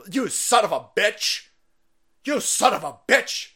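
a hammed-up angry shout at the kid; mock outraged yell. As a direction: shout it like an offended school official. School staff acted, yelling.

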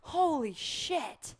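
high, loud, stretched-out amazement; awestruck. Real, not acted. Praising a friend's Toad impression, loud and awestruck. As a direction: draw each phrase out in loud awe.

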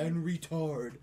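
mock-proper fake accent with a hard R in "retard"; faked accent over Boston's. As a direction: overpronounce the R, hiding the Boston accent. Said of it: "I'm gonna fake my accent".

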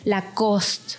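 LACOSTE with silent final E, "la-KOST"; pronunciación francesa. Shown as a demonstration. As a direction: end LACOSTE on the consonants, French style. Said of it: "no vas a decir Lacoste". («Lacoste» a la francesa, sin la e final)

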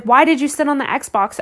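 mild mock yell at a child; exasperated parent's question, lightly acted; retold yelling. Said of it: "I was yelling at him".

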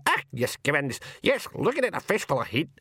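high, squawking Scots pixie brawlers; shrieky high-pitched pixie brogue; screaming pixies. A narrator's reading. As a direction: squeal and jabber like tiny pixies spoiling for a fight. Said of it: "a scream of".

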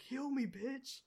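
high, loud mock yell; retold demand. Player retelling a plea to a teammate, comic demanding yell. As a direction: yell it like an urgent in-game plea.

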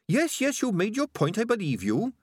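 high-pitched, impatient little rat; Sardines the rat. A narrator's reading. Rat placating a nagging companion, high and impatient. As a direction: cut off the argument in a high voice.

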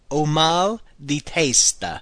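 slow, deliberate repeat of the phrase. Shown as a demonstration. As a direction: repeat it slowly for learners. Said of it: "Again, remember".

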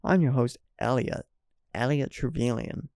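put-on halting go at an American accent; attempted American accent. Host retries own name for listeners, attempted American accent. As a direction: try the host intro in American, pausing on the name. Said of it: "in an American accent".

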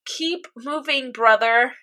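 tender imitation of a last request; solemn farewell. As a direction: say it slowly and gently. Acts Al's solemn last words.

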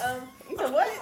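loud, gurgling laugh after choking; water in throat. Real, not acted. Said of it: "It sound like something flooding in there".

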